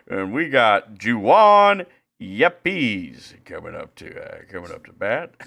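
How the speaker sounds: a lightly voiced old broadcaster; old announcer impression. Imitating Mike Shannon calling the batter, light mock impression. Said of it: "I'm Mike Shannon".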